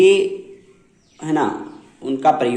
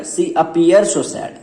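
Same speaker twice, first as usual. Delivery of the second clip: slow correct example; 4 semitones higher, 3 dB louder, much slower than usual. Shown as a demonstration. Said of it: "इसको क्या बोलना पड़ेगा".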